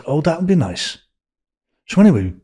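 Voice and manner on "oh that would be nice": imitating him. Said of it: "And he said".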